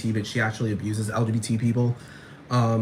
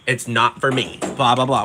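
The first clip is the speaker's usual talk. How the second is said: mocking judge; 4 dB louder than usual. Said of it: "look at talent and say".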